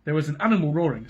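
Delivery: stuffy sniffly nose; reading through sniffles. Real, not acted. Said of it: "I'm getting sniffly".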